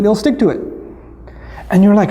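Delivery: ordinary talk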